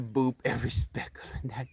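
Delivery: whisper. Real, not acted. She whispers fondly about her dog's speckles. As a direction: breathe it fondly.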